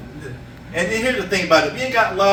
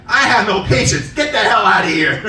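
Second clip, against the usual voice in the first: mock snap; 3 semitones higher, 4 dB louder than usual. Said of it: "I said".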